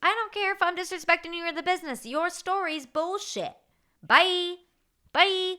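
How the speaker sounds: retold angry yell. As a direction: yell it back at the boss and storm off. Retold shouting match with owner.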